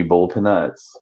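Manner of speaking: boiled said as "bowl", peanuts as puh-NUTS; Southern regional pronunciation. Shown as a demonstration. Southerner explaining home food, boiled said as "bold". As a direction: say boiled like "bold", one syllable. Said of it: "that's what we say where I'm at".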